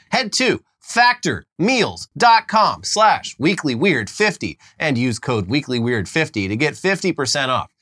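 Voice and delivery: spelled out slowly; slow code read. Acted. Host reads the promo code for listeners, very slowly. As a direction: give the web address and code very slowly.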